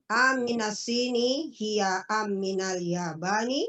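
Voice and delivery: "aminas sini hiya am minal yabani" with a rising question tune; student's corrected question reading; question intonation. Shown as a demonstration. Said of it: "Nah, begitu. Enak jadinya".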